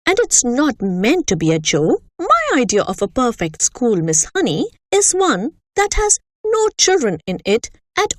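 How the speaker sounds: a bullying headmistress holding forth with disgust; lightly voiced harsh headmistress; the Trunchbull. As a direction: sneer at the children like a tyrant. Headmistress speaking.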